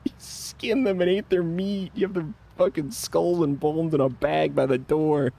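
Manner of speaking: retelling how the wife told him off, hammed-up; mock angry wife. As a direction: play the furious missus, half laughing. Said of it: "she's like".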